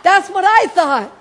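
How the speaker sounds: laughing through the words, high and loud. Real, not acted. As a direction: laugh it out at the punchline. Laughing at her own story.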